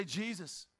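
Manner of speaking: quiet, low call to Jesus; gentle, hushed calling; soft cry out. Shown as a demonstration. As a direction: say the name softly, so no baby wakes. Shows crying out without waking babies.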